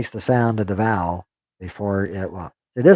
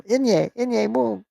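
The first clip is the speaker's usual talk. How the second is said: playful pun; 12 semitones higher than usual. Pretend. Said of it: "Get it?".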